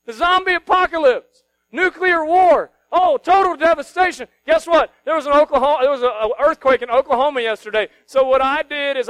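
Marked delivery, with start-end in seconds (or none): 0.0-4.3 hammed-up panicked shouting, much higher and louder; over-the-top mock panic; mock panicked world. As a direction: mimic the world losing its mind over doom. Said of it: "You know what they do?".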